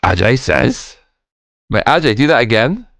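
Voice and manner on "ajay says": "says" lifted lightly like a question; "says" with a mild questioning upturn; mimicked TTS intonation. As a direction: imitate a robot reader asking "says". Mimics text-to-speech question intonation.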